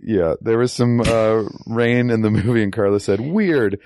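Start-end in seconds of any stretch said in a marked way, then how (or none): 3.2-3.8 high-pitched quote of an amazed friend; imitated amazement, pitched well up; mock wonder. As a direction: retell it high, breaking into laughter. Quoting Carla's amused wonder at rain.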